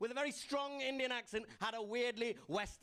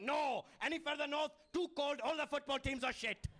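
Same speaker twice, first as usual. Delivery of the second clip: immigrants' voice; 4 semitones higher than usual. Retold or imitated. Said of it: "suddenly went".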